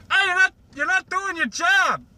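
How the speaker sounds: a hammed-up shrill pony telling off a slacker; squeaky mock scold. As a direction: Twilight voiced as a squeaky cartoon pony, scolding. Twilight scolding Rainbow Dash.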